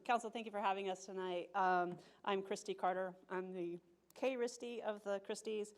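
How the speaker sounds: talking around gum in mouth; chewing gum. Real, not acted. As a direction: speak while chewing gum. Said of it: "I do have gum in my mouth".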